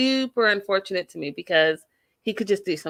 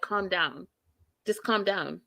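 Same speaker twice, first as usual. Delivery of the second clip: calmly; 4 dB quieter than usual. Retold or imitated. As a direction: imitate someone staying calm, a touch softer. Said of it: "keep their calm".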